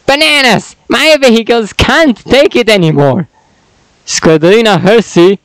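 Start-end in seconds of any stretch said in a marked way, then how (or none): 0.1-3.3 character voice. Acted. Character voice intro line.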